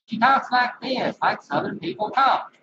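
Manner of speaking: put-on Southern accent. Showing viewers how the local woman talks, imitated Southern accent. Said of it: "you heard her accent".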